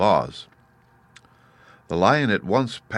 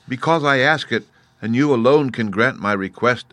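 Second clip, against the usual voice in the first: higher, firmer reply; Woodman answering; 5 semitones higher, 4 dB louder than usual. Acted. Tin Woodman answering the beast, higher. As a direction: insist politely, raised. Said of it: "answered the Woodman".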